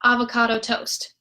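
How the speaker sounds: avocado toast run quickly together; said fast. Shown as a demonstration. Teacher showing the fast version. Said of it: "When you say it fast".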